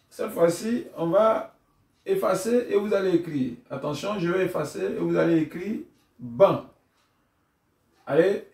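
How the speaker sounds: lively classroom commands; teacher giving the signal. Shown as a demonstration. Teacher signalling pupils to write: brisk, lively commands. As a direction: get the class writing now. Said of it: "on donne le signal".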